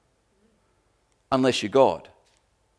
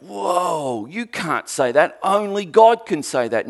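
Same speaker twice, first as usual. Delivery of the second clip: lightly acted, higher-pitched objection; mock shocked crowd; 6 semitones higher, 3 dB louder than usual. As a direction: imitate onlookers protesting in shock. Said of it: "everyone went".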